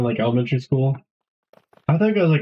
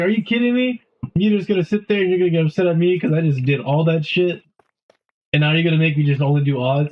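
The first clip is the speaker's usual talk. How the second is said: higher-pitched mock indignation, easing off; retold exasperation; 4 semitones higher than usual. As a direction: protest as if wronged by a teacher. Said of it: "that pissed me off".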